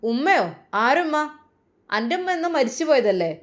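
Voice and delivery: husband scornfully shouting at his wife; roaring mockery. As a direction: jeer at her as he shouts. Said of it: "അട്ടഹസിച്ചുകൊണ്ടുള്ള ആ ഒരു സംസാരം".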